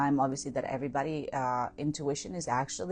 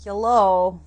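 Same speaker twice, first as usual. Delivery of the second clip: mock Russian accent; 5 semitones higher, 12 dB louder than usual. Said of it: "Practice that Russian accent".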